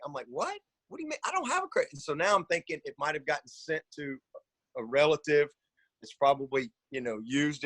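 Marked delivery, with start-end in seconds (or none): 0.3-1.9 high, squeaky panicked disbelief; retold panic. Caller panicking at the Discover lady, high panicked squeak. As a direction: replay the moment of panic, pitch jumping up. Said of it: "and so now I'm panicked".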